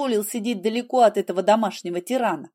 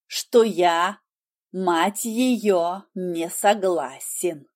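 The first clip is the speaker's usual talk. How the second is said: fierce; 2 semitones lower than usual. Acted. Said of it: "свирепо произнёс Хэл".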